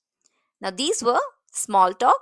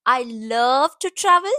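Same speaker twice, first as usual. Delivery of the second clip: love and travel pressed a little harder; I love to travel with a mild push on love and travel; stress on love and travel; 4 dB louder than usual. Shown as a demonstration. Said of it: "Stress on love and travel".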